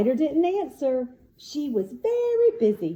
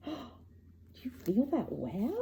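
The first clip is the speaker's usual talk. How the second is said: slow, soft hushed question; hushed wonder; 10 dB quieter, slower than usual. Acted. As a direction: invite touch with a hush.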